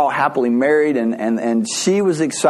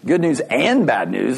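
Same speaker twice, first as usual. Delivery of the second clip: "and" stressed, rising at the end; puzzled repeat with weight on "and"; questioning echo. Acted. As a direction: echo it back as a question, leaning hard on "and". Echoes the news back, questioning.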